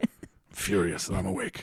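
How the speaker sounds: weary, tired, whispered complaining mutter. Redoing a friend's impression of an improv partner: impression of Miles. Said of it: "her impression of Miles".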